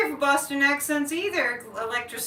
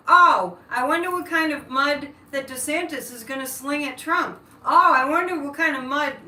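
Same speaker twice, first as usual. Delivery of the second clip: mocking news anchors; 4 dB louder than usual. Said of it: "I'm just paraphrasing".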